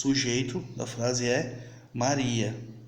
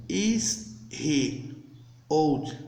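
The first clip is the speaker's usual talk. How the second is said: slow demo English; 3 semitones higher, much slower than usual. Shown as a demonstration. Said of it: "ó".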